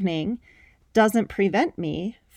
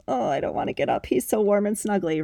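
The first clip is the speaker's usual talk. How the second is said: lazy morning whine; faster than usual. Retold or imitated. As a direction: whine like you're still cuddled on the couch. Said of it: "being like".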